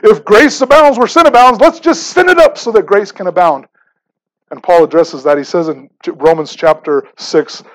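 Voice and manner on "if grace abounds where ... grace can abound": higher, louder, goofy knucklehead voice; a hammed-up dim listener cheering a bad idea. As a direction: play a careless guy who thinks he found a loophole. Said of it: "Some knucklehead's gonna say".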